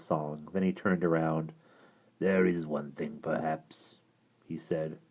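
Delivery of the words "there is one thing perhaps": low gravelly creature voice; hideous creature speaking low; deep creature voice. Acted. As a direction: rumble it like a hideous lake creature. Creature offers.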